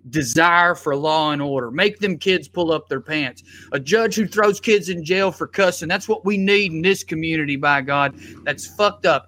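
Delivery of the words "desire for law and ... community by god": put-on Southern accent. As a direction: play a self-righteous Southern preacher of law and order. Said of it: "And I did the Southern accent".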